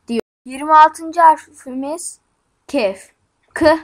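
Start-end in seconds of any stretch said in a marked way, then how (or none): 3.5-3.8 K as a brief sound, not its name; letter sound demo. Shown as a demonstration. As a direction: say K as a short "kı". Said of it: "diye okunur". (K'yi kısa "kı" sesiyle söyle)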